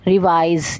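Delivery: रिवाइज said with a z ending, ri-vaiz; correct pronunciation. Shown as a demonstration. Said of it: "वी आई जेड ई वाइज".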